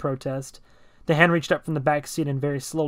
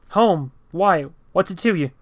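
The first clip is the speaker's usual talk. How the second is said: defensive snap; 4 semitones higher, 5 dB louder than usual. Acted. Driver snaps defensively.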